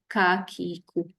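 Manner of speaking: "Kakiku" as ka, ki, ku with a light k; touch the back tongue lightly to the palate for "Kakiku"; slow, separate light k syllables in "Kakiku"; easy light kaf. Shown as a demonstration. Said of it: "dia mudah kerana sedikit sahaja".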